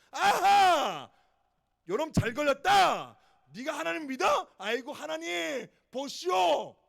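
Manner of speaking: a loud gleeful "aha", then sneering taunts; gloating mocker. Scoffer taunting a sinning believer, gleeful jeer. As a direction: crow over the caught believer with a jeer. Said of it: "이렇게 되는 거예요".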